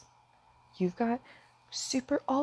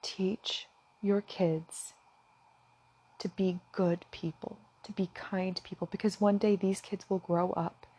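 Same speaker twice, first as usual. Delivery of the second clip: near tears; 6 dB quieter than usual. Real, not acted. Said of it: "I was getting emotional again".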